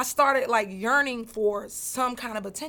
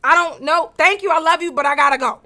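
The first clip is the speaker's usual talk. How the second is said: holding back tears; 6 semitones higher, 12 dB louder than usual. Retold or imitated. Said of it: "hold those tears back".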